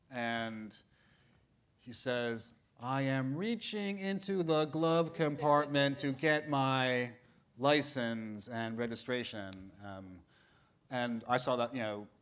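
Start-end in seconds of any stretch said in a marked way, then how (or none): 2.8-9.7 slow, careful mock-calm driver voice; lightly voiced nervous driver explaining himself; quoting Richard Pryor. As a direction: spell out every move to the cop, slowly. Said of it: "that famous Richard Pryor skit".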